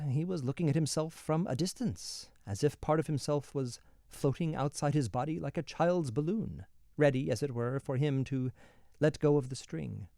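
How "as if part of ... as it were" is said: ordinary delivery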